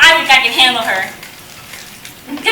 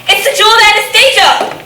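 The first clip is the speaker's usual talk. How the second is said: greedy excitement; 5 semitones higher than usual. Acted. Villain finds the jewel.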